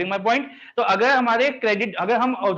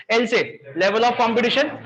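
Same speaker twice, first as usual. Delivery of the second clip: drawn out, said slowly for all to repeat; slow class recitation; much slower than usual. Shown as a demonstration. Teacher leading students in slow group recitation of the list. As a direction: lead the class chant slowly. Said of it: "एक बार फिर से बोलते हैं".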